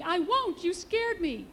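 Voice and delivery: put-on high, loud protest of a scared baby; crying baby. A narrator's reading. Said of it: "cried baby".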